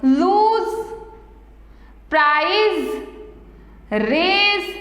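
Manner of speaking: "लूज, प्राइस, रेज" each ending in a buzzed z; Z sound endings. Shown as a demonstration. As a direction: end "लूज", "प्राइस", "रेज" on a voiced z, not s. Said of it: "यानी कि जेड का sound आ रहा है". ("लूज, प्राइस, रेज" के अंत में ज़ की आवाज़)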